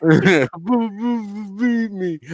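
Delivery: high, loud stammering plea; stuttering simpleton. Retold or imitated. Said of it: "echoing friend's impression".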